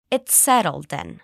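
"It's settled then" run together smoothly as one word; linked as one word. Shown as a demonstration. Teacher models the linking for students. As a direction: glide the three words into one. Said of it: "sounds like one word".

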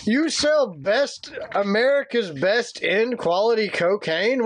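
slow, drawn-out mock indignation; hammed-up affronted complaint; mock outrage. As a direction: act scandalized, spacing out the words. Acting out the angry reviewer's outrage.

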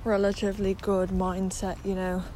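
talking around a retainer; slightly lisped, retainer in mouth; wearing a retainer. Real, not acted. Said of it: "that I have my retainer in".

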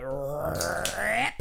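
long, drawn-out ripping noise; imitated tearing. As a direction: stretch "rip" out like muscle tearing.

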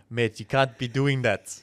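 slow, shaky-aim stab at South African; attempted South African accent. Shown as a demonstration. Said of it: "that was better".

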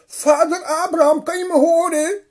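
luide roep, veel hoger en harder; roepend. Acted. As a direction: roep wanhopig naar boven. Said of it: "riep de rijke man". (rijke man roept vanuit de hel naar Abraham)

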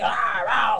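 wet spitty slobber noises. Shown as a demonstration. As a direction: slurp and spit on the ah. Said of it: "start slobbering this way".

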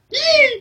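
short, very high re-enacted squeal; squeal of delight. Co-host re-enacting her reaction to Captain Jack, squeal of delight. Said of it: "I think I squealed with delight".

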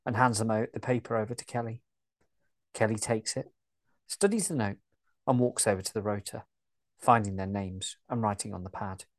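even, steady story narration; calm audio-drama narrator; scene narration. A narrator's reading. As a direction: read the stage directions like a narrator.

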